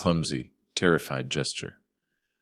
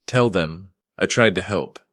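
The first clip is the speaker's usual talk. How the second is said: begging; 4 semitones higher, 6 dB louder than usual. A narrator's reading. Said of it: "Vance begged".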